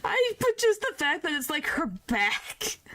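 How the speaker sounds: high, half-laughing disbelief; can't believe the hag's request; incredulous. Real, not acted.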